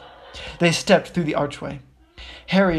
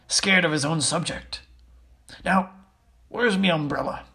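lightly voiced rustic giant; chummy, matter-of-fact character voice; Hagrid, confiding. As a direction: gossip like a folksy big fellow.

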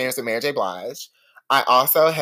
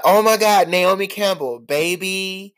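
high, loud fan squeal; starstruck squeal; 7 semitones higher, 4 dB louder, slower than usual. Retold or imitated. Fans squealing at Naomi Campbell, high and loud. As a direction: shriek her name like starstruck fans.

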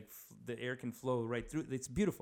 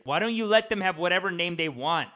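higher-pitched indignant outburst, imitated; mad heckler; 6 semitones higher, 11 dB louder than usual. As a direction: call out like an offended audience member. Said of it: "and he got so mad".

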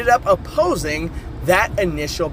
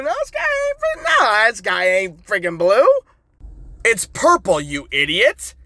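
put-on angry child. Child snapping back at kids.

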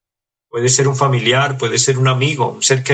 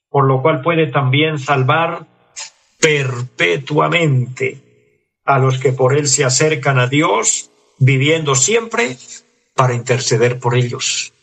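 slow, solemn reading of the verse; scripture reading; slower than usual. Acted. Preacher reading Hebrews seven to the congregation, slow solemn reading. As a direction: read it out word by word, stretching perpetuamente.

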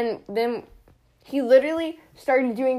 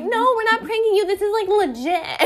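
excited insisting; 8 semitones higher than usual. Retold or imitated. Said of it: "And we're like".

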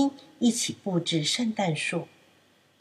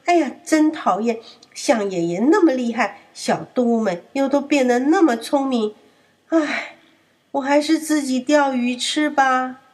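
louder, annoyed sulk; defeated wolf rubbing his backside; lightly voiced grumpy wolf; grumbling; 4 semitones higher, 4 dB louder than usual. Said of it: "他摸摸屁股说：".

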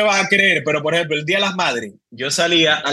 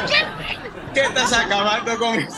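imitating crowd; 3 semitones higher, 4 dB quieter, much slower than usual. Crowd shouting at the band.

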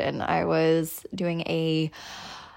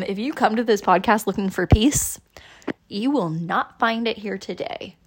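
mock ominous; 3 dB louder than usual. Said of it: "No, I'm just kidding".

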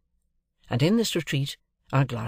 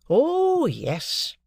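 Wemmick voice; 13 semitones higher, 3 dB louder than usual. A narrator's reading. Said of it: "said Wemmick".

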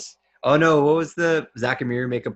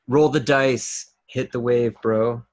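Las Vegas bro; slower than usual. Pretend. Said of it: "can't do an impression for either of those cities".

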